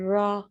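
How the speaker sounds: रॉ with the tongue pulled back, R vibrating; R sound demo. Shown as a demonstration. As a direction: say रॉ with a rolled, held R. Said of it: "हमारी टंग कैसे जा रही है".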